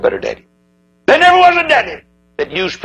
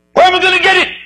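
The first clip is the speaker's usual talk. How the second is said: anxious patient; 4 dB louder, faster than usual. Acted. Patient asks the doctor.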